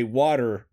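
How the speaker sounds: "water" with an American R at the end; put-on American "water", R sounded; Americanized pronunciation of water. Shown as a demonstration. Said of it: "I have to say".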